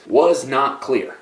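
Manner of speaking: was not clear spelled out very slowly; a slow, weighty was not clear; slow emphasis. Acted. Reveal about the urine.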